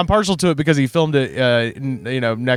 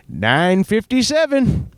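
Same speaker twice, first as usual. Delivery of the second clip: slow, higher sing-song stranger; eerie stranger; 6 semitones higher, slower than usual. Retold or imitated. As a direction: chant it like a creepy passerby. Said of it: "He just goes".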